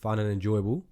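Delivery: reading the closing script aloud; podcast outro read. Acted. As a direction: read the sign-off like an announcer.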